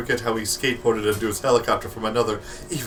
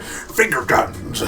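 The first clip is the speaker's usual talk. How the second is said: slow, drawn-out strongman voice; lightly voiced strongman, slow; much slower than usual. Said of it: "strong man saying".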